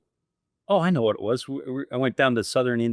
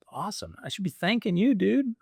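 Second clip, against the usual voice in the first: much higher, bright mock buddy voice; buddy's reply; 9 semitones higher than usual. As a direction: lift the voice way up as the friend. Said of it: "He goes".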